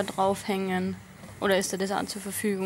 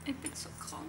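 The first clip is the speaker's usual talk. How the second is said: weak whispered sick moan; man flu; 7 semitones higher, 13 dB quieter than usual. Retold or imitated. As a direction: whimper like a man with a cold. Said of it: "Die Männergrippe".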